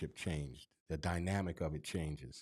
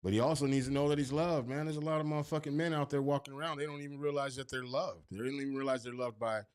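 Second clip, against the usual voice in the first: raised, urgent, insisting men are loved; impassioned; 6 semitones higher than usual. Real, not acted. Preaching to his friend that men need love. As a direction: pitch it up and lean in hard.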